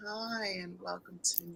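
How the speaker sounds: sultry, low, very soft and hushed voice. Teasing someone about how they talk, mocking a sultry voice. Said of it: "with that kind of voice".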